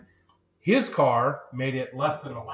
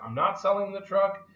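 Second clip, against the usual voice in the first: not selling raised high; higher contradicting take; 6 semitones higher than usual. Retold or imitated. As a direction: jump up in pitch on the reversal. Mimicking flip-flopping.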